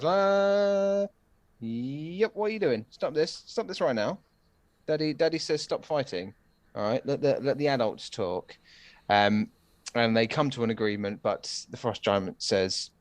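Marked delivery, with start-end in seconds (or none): 0.0-8.6 higher, mock annoyed father; pissed off dad. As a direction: play a fed-up dad telling kids off. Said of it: "like, a massively pissed off dad way".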